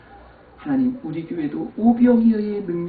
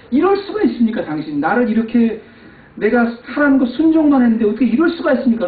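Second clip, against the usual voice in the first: high, loud aggrieved cry at God; complaining shout; 10 semitones higher, 7 dB louder than usual. Retold or imitated. Pastor retelling his seaside complaint to God, loud aggrieved shout. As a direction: shout your grievance to heaven. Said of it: "막 소리치면서 원망하는데".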